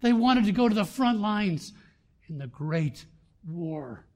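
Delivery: loud, high, emphatic pulpit cry; impassioned preaching. Real, not acted. Preacher rallying the church about the front lines, impassioned.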